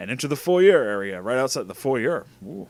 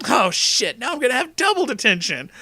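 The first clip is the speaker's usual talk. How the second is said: put-on high, louder girlfriend voice; dismayed Tana; 11 semitones higher, 4 dB louder than usual. Girlfriend reacting to double detention, high dismayed voice. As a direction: wail it in a high character voice.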